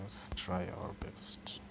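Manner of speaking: slow, soft whisper to himself; hushed, slow self-encouragement. Real, not acted. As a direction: whisper it as a private pep talk. Repeats it to himself.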